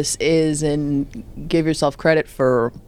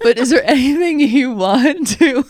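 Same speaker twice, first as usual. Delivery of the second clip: laughing through words; 7 semitones higher, 4 dB louder than usual. Real, not acted. Host cracks up mid-question.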